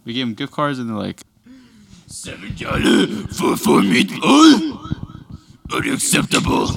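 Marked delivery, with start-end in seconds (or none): 2.1-6.7 high, loud, very slow fake Asian accent; mocking stereotyped Asian accent. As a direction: mimic a haughty customer in a crude mock accent. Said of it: "she dons a very, uh, stere".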